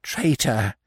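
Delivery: lightly voiced bird cry; crying magpie. A narrator's reading. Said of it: "cried the magpie from the tree".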